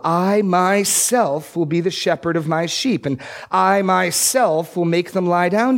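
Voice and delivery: measured, rising read of God's promise, slowing on I myself; scripture reading. Acted. Preacher reads Ezekiel to the congregation, solemn and measured.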